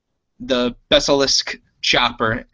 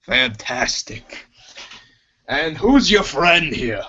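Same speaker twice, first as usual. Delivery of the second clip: lightly voiced alien mechanic, sly; Chopper chatting. Mechanic Chopper teases the crew, lightly voiced. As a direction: relish the thought, then ask kindly.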